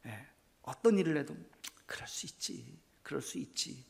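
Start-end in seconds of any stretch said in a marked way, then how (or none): 1.8-3.8 soft forgiving murmur. Retold or imitated. Voicing a forgiving person.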